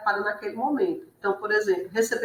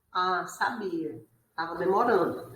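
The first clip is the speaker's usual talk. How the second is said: resigned reply; 2 semitones lower, 9 dB quieter than usual. Retold or imitated. Partner's resigned reply in chat. (resposta resignada, mais baixa e lenta)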